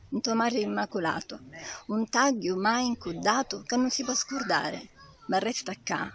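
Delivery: earnest, rhythmic dialect poem reading; poem recitation. Acted. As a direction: declaim it with longing and hope. Recites her Sicilian dialect poem.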